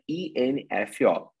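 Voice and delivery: slowly spelled I N F O; slow letter-by-letter spelling. Shown as a demonstration. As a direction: spell out each letter of "INFO". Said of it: "de informação".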